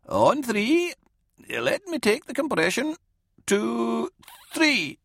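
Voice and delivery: high-pitched, measured instructions; Dorden, steady medic. Acted. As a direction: count a handover in carefully. Dorden counts to take the compression.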